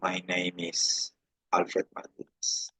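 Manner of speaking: "name is" linked as "nei-mis", slowly; slow, soft linking demo. Shown as a demonstration. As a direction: run the m of "name" into "is". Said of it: "Va a golpear a la I".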